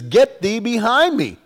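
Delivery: high-pitched, forceful command; stern rebuke. Acted. Jesus rebuking Peter as the tempter, stern command. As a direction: send the tempter away with authority.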